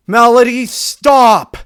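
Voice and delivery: high, loud urgent yell; a mother shouting her daughter's name in alarm. Acted. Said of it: "her mother yelled".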